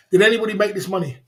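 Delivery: hard, fast challenge to the chat; tough mod demo. Shown as a demonstration. Streamer showing mods how to stand firm, fast and defiant. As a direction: demand it like a strong mod. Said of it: "My mods are gonna be like this".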